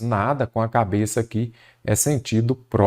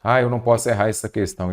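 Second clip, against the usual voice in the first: lightly voiced student fretting; a hint of an exam-worried student, lower at first; 3 semitones lower than usual. Teacher imitates student facing the exam question, mild fretting. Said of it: "você já vem assim".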